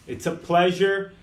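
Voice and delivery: usual speaking voice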